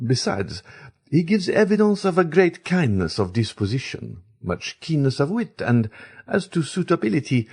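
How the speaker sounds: a fashionable baroness sharing gossip with a friend; lady praising the prince to her friend, confiding and light; Baroness speaking. A narrator's reading. Baroness voiced in the story.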